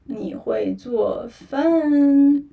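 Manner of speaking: teacher modelling 你会做饭 slowly; slow demo. Shown as a demonstration. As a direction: lay out each syllable of 你会做饭 slowly. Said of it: "first you say".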